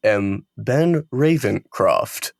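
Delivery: slow, stiff robot voice. Retold or imitated. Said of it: "He sounds like a little, like, robot dude".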